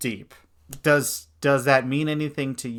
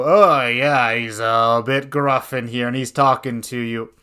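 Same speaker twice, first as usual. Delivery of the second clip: louder, rumbling gruff voice with a weird Scottish accent; 8 dB louder than usual. Shown as a demonstration. GM forgetting the NPC voice, slipping into a Scottish accent. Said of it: "weird Scottish accent".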